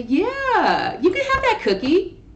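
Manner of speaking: high, strained sarcastic sing-song; through gritted teeth. Shown as a demonstration. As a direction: say it through your teeth, meaning no. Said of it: "talking to your teeth like this".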